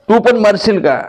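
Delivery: high-pitched pleading mother's question; the mother begs her son, will you die too; anxious mother. Acted. Mother asking her son in a high voice.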